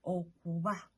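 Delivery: Okuba with a light, v-like B; Okuba, lips barely touching on b; soft B. Shown as a demonstration. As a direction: soften the B in Okuba toward v. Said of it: "It's a soft B".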